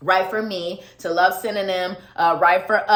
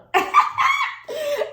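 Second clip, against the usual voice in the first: burst of laughter. Real, not acted. Laughing at own singing.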